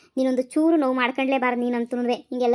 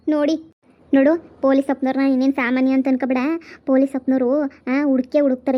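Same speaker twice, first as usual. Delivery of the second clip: emphatic reassurance; 5 dB louder than usual. Acted. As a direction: press the point firmly. Reassuring distressed sister-in-law.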